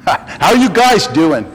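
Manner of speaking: slow, doing said as doin' with no g; dropped g. Shown as a demonstration. Preacher showing Southerners drop the g, slow. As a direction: drawl out doin' without the final g. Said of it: "put a G on the end".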